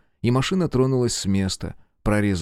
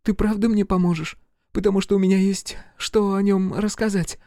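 high, hopeful female voice; arrested woman begging the agent, hopeful; pleading young woman; 11 semitones higher than usual. A narrator's reading. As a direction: beg her for a deal. Jennifer pleads.

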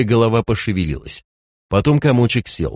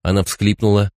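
ordinary delivery

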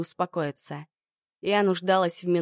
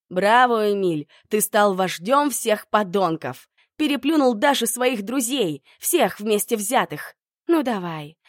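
furious rant; 3 semitones higher, 5 dB louder than usual. Acted. Heroine lashes out at Emil in a quarrel.

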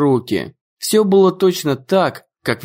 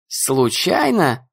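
случайно drawn out slowly, doubting fall; sceptical; much slower than usual. Acted. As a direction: repeat случайно slowly, not buying it. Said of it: "мы случайно свалились".

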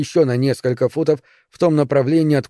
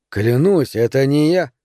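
even voice. Acted. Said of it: "ровным голосом ответил Бадди".

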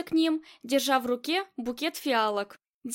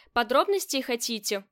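ordinary delivery

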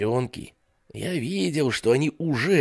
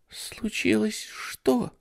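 put-on high, slow frightened child; scared little girl; 12 semitones higher, slower than usual. Jennifer asks what happened, high scared child. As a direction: ask fearfully like a small girl. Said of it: "спросила Дженнифер".

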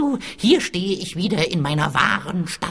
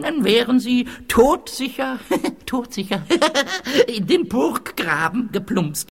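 laughing; 4 semitones higher than usual. Acted. Gloating with laughter.

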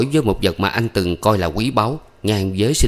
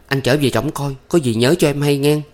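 softened voice; 6 semitones higher than usual. A narrator's reading. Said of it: "dịu giọng lại".

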